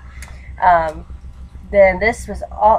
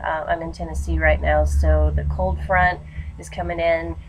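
congested allergy voice; stuffy nose from allergies. Real, not acted. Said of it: "my voice sounds like I'm sick".

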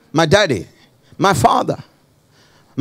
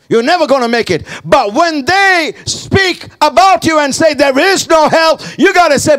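urgent pulpit warning, building higher; preacher driving the warning home; impassioned preaching; 7 semitones higher than usual. Real, not acted. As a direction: exhort the congregation forcefully. Preacher exhorting the church.

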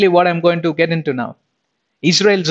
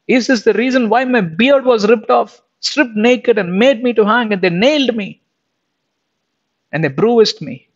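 raised, pleading voice of a wounded Christ; Jesus grieving; 5 semitones higher than usual. Acted. Jesus asks his brothers and sisters why he died, grieving plea. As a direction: plead higher and higher, heartbroken. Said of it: "is crying, sitting there, interceding".

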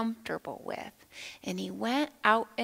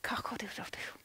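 rooster noise; 10 dB quieter than usual. Shown as a demonstration. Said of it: "make your best rooster noise".

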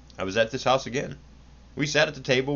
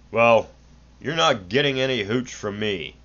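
snorting; 5 dB louder than usual. Acted. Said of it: "the son cursed and snorted".

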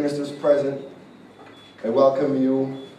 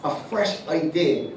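prophetic word; 2 semitones higher than usual. Acted. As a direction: speak as the mouthpiece of God, hushed and solemn.

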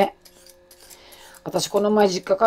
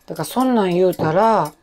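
whisper; 2 semitones lower than usual. Real, not acted. Unvoiced line.

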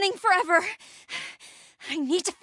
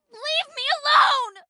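panicked; 8 semitones higher, 4 dB louder than usual. Acted. Fending off an attacker.

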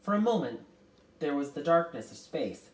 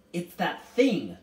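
loud, higher, drawn-out exclamation; crying out; 4 semitones higher, 9 dB louder, slower than usual. A narrator's reading. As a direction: cry out in alarm. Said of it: "Charles Wallace cried".

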